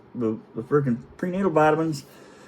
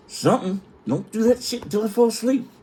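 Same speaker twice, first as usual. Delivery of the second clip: high mock plea; 10 semitones higher than usual. Retold plea to wife.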